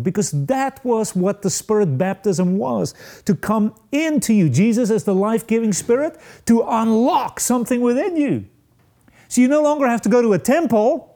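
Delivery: rising preaching fervor. Acted. Preacher builds to a climax.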